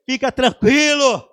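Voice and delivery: slow, loud congregational repeat; loud, slow affirmation; loud call. Real, not acted. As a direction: declare it loud to your neighbour. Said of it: "Fala mais uma vez".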